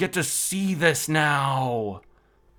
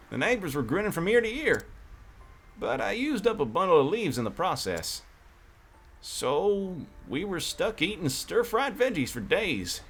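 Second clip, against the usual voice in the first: put-on a light country cowboy accent, slightly higher; lightly voiced country cowboy merchant telling a story; 3 semitones higher than usual. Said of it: "the reason why I'm doing the country accent".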